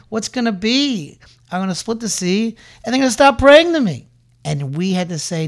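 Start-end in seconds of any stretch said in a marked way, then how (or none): 0.1-4.1 higher, fretting divine voice that rises louder at the end; God fretting that the praying will stop; God worrying. Retold or imitated. God worries aloud about the people, fretting and higher. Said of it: "Hashem said".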